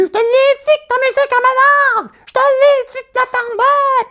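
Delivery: very high, loud screeching neighbour; furious high yell at the loud neighbour; high-pitched yelling. Retold or imitated. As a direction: shriek it way up high in a fury. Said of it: "elle criait avec son teinte de voix aiguë".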